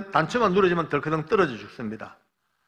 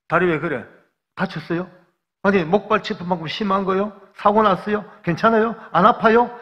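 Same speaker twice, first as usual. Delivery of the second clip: worried questions building louder and higher; anxious rapid questions; 6 semitones higher, 6 dB louder than usual. Retold or imitated. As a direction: fire off worried questions, each one more urgent. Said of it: "대답할 기회도 없이 막 물어댑니다". (점점 다급해지는 걱정스러운 질문)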